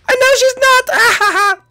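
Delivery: gloating laugh. Acted.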